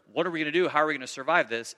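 imitating a frightened crowd in a mild way; mock panic. Preacher voicing starving tribes in mild panic. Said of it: "It's, "If we don't get food".

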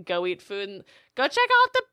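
high, loud put-on parent voice; mock parent urging. Parents sending kids next door to see rabbits, mock urging.

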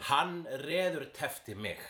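Hann reðurtefti mig in clear Icelandic, stress on Hann; model Icelandic phrase. Shown as a demonstration. Teacher modelling an Icelandic phrase for the learner. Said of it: "teaching the phrase".

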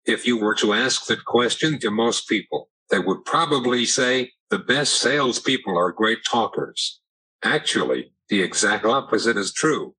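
synthetic text-to-speech voice; computer voice. Real, not acted. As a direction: speak like an AAC speech device. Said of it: "using a computer voice".

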